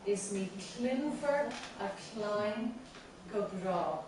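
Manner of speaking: "is ní clinfar a chlein go brá" with beats on clinfar, chlein, brá; marked stresses. Shown as a demonstration. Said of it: "and the stresses are".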